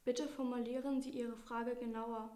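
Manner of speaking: flat robot voice, computer assistant. Acted. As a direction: speak like a monotone AI robot. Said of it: "Sie antwortet mit Roboterstimme".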